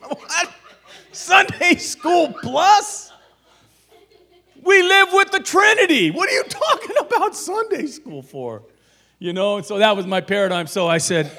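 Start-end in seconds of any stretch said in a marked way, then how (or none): 0.1-8.6 mock outrage. Mocking the curriculum's name.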